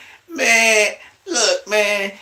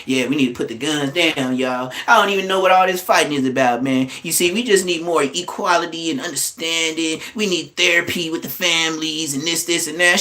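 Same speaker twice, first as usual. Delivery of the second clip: mock positive speech. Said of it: "talking positive".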